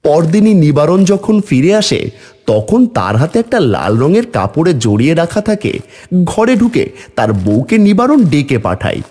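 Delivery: measured storyteller's narration; story narration. A narrator's reading. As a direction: narrate the next scene in a steady storytelling voice. Narrates the story between dialogue.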